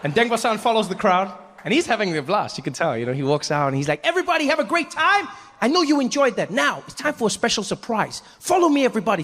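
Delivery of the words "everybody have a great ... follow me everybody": much higher, bright announcer; showman host. Retold or imitated. Deng Basan rallies the tour group, much higher, showman announcer. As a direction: hype the crowd like a tour host.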